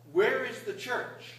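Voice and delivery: put-on slow, high rising question of a little old priest; little old priest asks the people, slowly and high; old priest asking. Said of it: "and he said".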